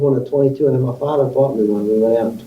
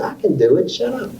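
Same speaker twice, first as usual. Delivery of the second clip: teacher's snap; 7 semitones higher than usual. Retold or imitated. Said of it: "And she used to".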